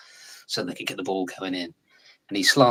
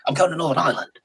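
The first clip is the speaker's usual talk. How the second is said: keen mock announcement, pitched way up; eager young self; 9 semitones higher, 4 dB louder, faster than usual. Young actor flying to Belfast, eager high mock declaration. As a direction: play your naive younger self, bright and high.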